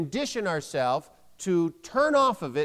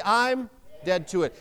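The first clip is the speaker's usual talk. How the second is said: convinced declaration; like you believe it. Shown as a demonstration. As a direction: state it with firm belief. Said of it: "let's say it like we believe it".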